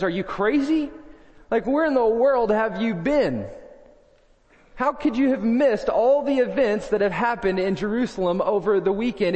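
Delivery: mildly hammed-up disbelief; sarcastic disbelief. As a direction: scoff at him like he's clueless. Disciple's sarcastic retort.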